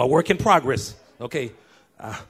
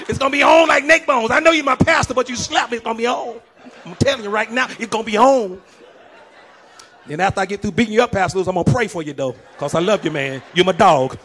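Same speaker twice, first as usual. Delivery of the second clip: mock tough member; 4 semitones higher, faster than usual. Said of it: "some of you".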